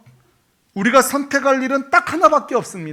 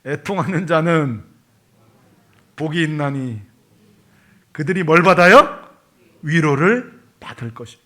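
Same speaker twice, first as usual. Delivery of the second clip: call and response; 5 semitones lower than usual. Shown as a demonstration. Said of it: "한번 따라 하실래요?".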